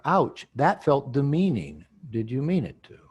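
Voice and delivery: slow demo. Shown as a demonstration.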